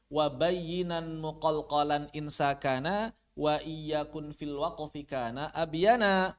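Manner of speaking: slow chanted verse; slow, measured recitation of a poem. Acted. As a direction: intone the poem line by line.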